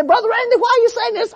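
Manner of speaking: questioning congregant. Retold or imitated.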